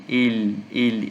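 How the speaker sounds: "ele" with a held tongue-tip L; "ele" pronounced as él, L lingering; clear lamed sound. Shown as a demonstration. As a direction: isolate the L in "ele". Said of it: "esse som assim".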